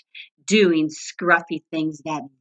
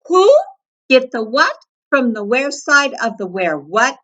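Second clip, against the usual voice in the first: mocking repeat; 7 semitones higher, 6 dB louder than usual. A narrator's reading. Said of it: "The scruffy varmint repeated".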